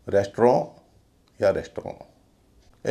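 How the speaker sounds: रेस्टोरेंट with a nasal -ron, no final t; French-like ending. Shown as a demonstration. Teacher listing common forms, slow रेस्टोरेंट without its t. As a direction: drop the final t of रेस्टोरेंट, drawn out slowly. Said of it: "और भी उच्चारण प्रचलित हैं".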